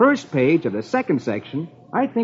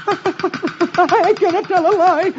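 high, quaking comic confession; terrified stammer; 13 semitones higher than usual. Acted. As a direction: stutter helplessly in fear of the boss. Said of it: "Dagwood's knees pound in fear".

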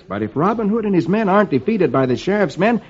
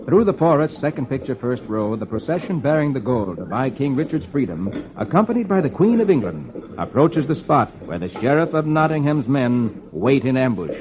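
comic-strip story reading; story narration; 5 semitones lower than usual. A narrator's reading. Reader describing the Queen's procession, storytelling. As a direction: read it out as an unfolding adventure.

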